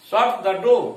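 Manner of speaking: शट punched loud, falling to door; stress on shut. Shown as a demonstration. Teacher stressing शट in a classroom command. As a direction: order with weight on शट. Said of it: "शट पर अधिक जोर है".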